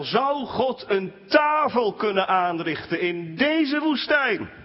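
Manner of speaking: high, whiny grumbling question; grumbling complaint. Retold or imitated. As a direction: moan it like a discontented crowd. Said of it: "mopperde het volk van Israël".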